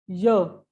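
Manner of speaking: य alone as a short "yuh"; isolating the sound. Shown as a demonstration. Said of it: "य आ रहा है ना पहले".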